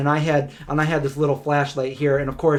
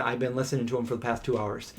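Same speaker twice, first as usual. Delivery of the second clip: hushed; 3 semitones lower, 9 dB quieter, faster than usual. Retold or imitated. Partner's hushed reply in tent.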